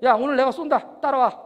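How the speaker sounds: loud, decisive announcement; acted commanding invitation; bossy D type. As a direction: take charge of the group like a boss. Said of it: "D타입은 어떻게 해요?".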